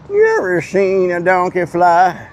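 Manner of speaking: slow, each word stretched; slow drawn-out. Shown as a demonstration. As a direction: drag the question out slowly.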